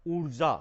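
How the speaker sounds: ऊर्जा said loud, with a long ऊ; loud teacher demo of ऊर्जा with a long ऊ; pronunciation example. Shown as a demonstration. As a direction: hit ऊर्जा loudly and hold the long ऊ. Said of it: "ऐसे ऊर्जा".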